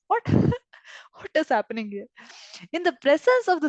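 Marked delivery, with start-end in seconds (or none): 0.1-2.1 shocked Krishna. Retold or imitated. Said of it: "Krishna is shocked".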